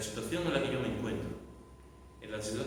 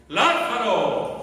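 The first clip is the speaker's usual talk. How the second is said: full-force shout, high and drawn out; Jesús; 10 semitones higher, 12 dB louder, much slower than usual. Acted. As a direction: bellow the name slowly to wake the dead. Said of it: "clamó a gran voz". (grito a gran voz, con intensidad)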